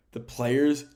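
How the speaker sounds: mid-yawn, words stretched by a yawn. Real, not acted. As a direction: say it through a yawn. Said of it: "oh my, if I keep yawning".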